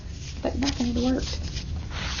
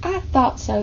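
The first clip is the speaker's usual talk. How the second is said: smiling. Acted. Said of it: "said with a smile".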